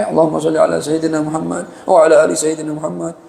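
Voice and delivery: evenly intoned Arabic blessing; imitating a devotional recitation; salawat recitation. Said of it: "Gitu baca salawat".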